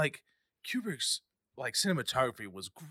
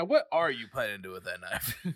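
sassy; 7 dB louder than usual. Retold or imitated. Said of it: "Little, little sass from Roland".

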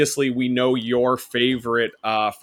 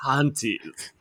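whispering; 5 dB quieter than usual. Retold or imitated. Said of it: "like, whispering".

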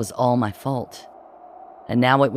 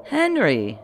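gasped; 8 semitones higher than usual. A narrator's reading. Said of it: "he gasped".

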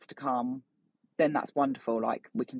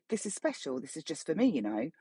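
imitated whisper; 6 dB quieter than usual. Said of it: "I hear this constant whispering".

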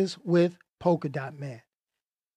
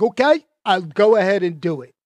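attempted accent, lands near Australian; loosely imitated Australian accent; Australian-sounding accent; 4 dB louder than usual. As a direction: put on a wobbly Australian accent. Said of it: "That sounded Australian".

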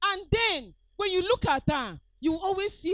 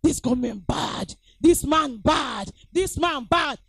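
mock grumbling; 4 dB louder than usual. People complaining about Buhari government, rising loud grumble. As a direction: grumble that rises to a loud complaint on This man bad. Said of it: "When Buhari first started".

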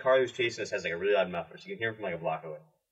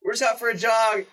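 breathless excuse; 12 semitones higher, 8 dB louder than usual. Retold or imitated. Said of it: "And I'm, like, out of breath".

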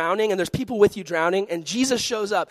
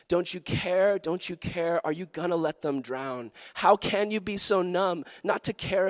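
recited song lyrics. Acted. Preacher reciting a singer's lyrics to youth, earnest recitation. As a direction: recite the lyrics like a pleading poem. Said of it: "recite the lyrics".

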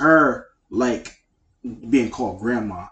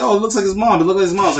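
laughing quote; 9 semitones higher, 6 dB louder, faster than usual. Retold or imitated. Retelling joke while laughing.

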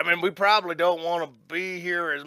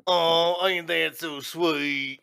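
mock aww; 2 semitones lower, much slower than usual. Teasing the cuddling pair.

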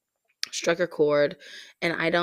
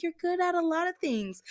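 high, gentle reassuring voice; imitated consoling; 11 semitones higher than usual. Friend trying to comfort her upset housemate, imitated consoling. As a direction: console a friend in a much higher voice. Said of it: "trying to console me".

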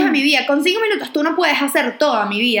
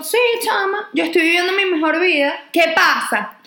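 higher, sassy retort, tossed off; cheeky, higher pitched reply to a nosy girl; sassy comeback; 4 semitones higher than usual. Retold or imitated. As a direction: brush her off with a carefree sass. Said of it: "Y yo le digo".

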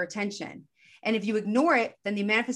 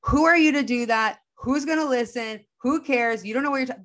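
higher, louder, scoffing inner critic; mocking ego voice; 4 semitones higher, 3 dB louder than usual. The ego voice shooting down a podcast dream, scornful. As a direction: push back like the doubting voice in your head. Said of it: "ego voice comes in and is like".

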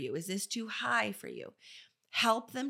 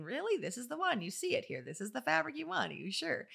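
pitched up imitating the client, eager; lightly voiced eager client; higher mock client voice; 6 semitones higher than usual. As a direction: mimic her gushing at the store.

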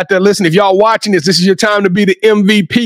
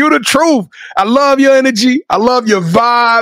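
higher, emphatic hype tribute; hype announcer; 5 semitones higher than usual. Real, not acted. Host hyping up young guest, emphatic announcer tribute.

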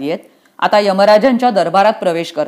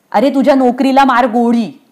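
put-on higher-pitched child's protest; defiant outburst; 4 semitones higher than usual. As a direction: brush off the worry defiantly. Child defies the messenger.

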